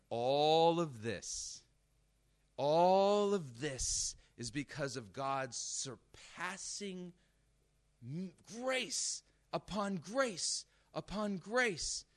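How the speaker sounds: slow, stretched-out key words; emphatic preaching. Real, not acted. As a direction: drag out each word with rising fervor. Preacher builds on surpassing grace.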